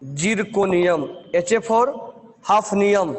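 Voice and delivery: "zirconium" stretched out very slowly; slow dictation. Shown as a demonstration. Teacher dictating the element name slowly. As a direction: draw out every syllable of "zirconium". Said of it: "Z आर for".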